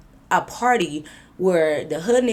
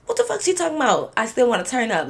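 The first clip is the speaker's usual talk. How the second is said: confused; 5 semitones higher than usual. Retold or imitated. Her confused inner reaction.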